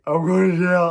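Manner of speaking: high, loud mock wail; retold panic. Driver as police lights turn on, mock-panicked wail. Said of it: "the most scared I've ever been".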